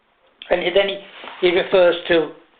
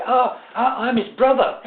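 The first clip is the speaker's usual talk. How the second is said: laughing through the words; 6 semitones higher than usual. Real, not acted. The lie, laughing.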